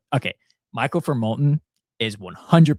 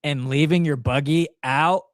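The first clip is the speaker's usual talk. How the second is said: outraged; 4 semitones higher, 4 dB louder, slower than usual. Real, not acted. Outraged about buggy leavers.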